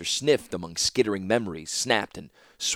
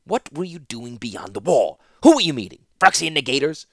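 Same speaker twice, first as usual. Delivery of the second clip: rising, louder demanding questions; stern interrogation; 6 semitones higher, 6 dB louder than usual. Acted. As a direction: press him hard with each question. Malzra interrogating Teferi.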